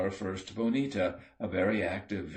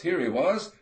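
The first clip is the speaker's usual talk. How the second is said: much higher and louder, jubilant; loud whoop; 9 semitones higher, 6 dB louder than usual. A narrator's reading. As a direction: shout out the find in triumph. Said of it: "let out a whoop".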